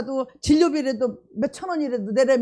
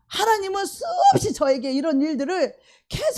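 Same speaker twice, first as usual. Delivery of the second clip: ordinary delivery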